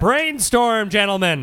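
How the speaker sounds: fading put-on comedian voice; Louis impression. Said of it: "I can't keep doing the Louis impression".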